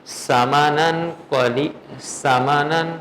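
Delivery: slow recited سامانن with a hissing s; teacher's test reading of سامانن with a sibilant start; deliberate misreading. Shown as a demonstration. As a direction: draw out سامانن, opening on a whistled s. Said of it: "میں نے جو پڑھا ہے آپ سن لیں".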